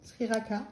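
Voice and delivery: sriracha tried with a hard K, as "srirakha"; tentative pronunciation. Shown as a demonstration. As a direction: turn the ch of sriracha into K. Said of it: "je sais pas comment on dit".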